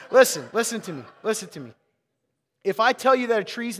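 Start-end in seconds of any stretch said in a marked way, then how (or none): 0.1-1.7 firm loud call. Real, not acted. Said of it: "Listen. (after laugh)".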